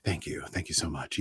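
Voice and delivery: a touch of a gracious actor; neutral actor voice. Pretend. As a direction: accept praise with mock modesty. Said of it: "this is my neutral actor voice".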